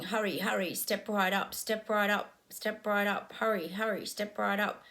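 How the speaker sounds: lightly voiced fairground barker calling the crowd in; a hint of a megaphone barker; carnival barker. Someone on a megaphone drawing a crowd, lightly voiced barker call. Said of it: "a megaphone of someone going".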